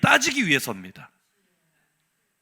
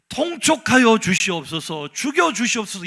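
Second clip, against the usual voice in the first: courtier's plea. Retold or imitated. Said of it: "신하들이 ... 뭐라 그래요".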